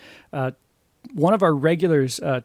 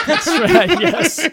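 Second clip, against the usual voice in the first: real laugh through the words, higher and louder; 12 semitones higher, 5 dB louder, much slower than usual. Real, not acted. Agreeing with co-host's joke, laughing loudly.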